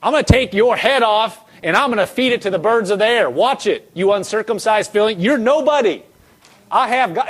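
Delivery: lightly acted cocky trash talk; mock battle taunt, rising at the end; imitated bold taunt. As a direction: talk big to a giant, picking up pace. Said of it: "he was saying".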